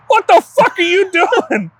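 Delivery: high, slow hammed-up janitor; mock janitor yell. Imitating the janitor catching a kid, slow and high. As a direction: drag it out like a shocked janitor. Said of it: "this giant black janitor walked in and he was like".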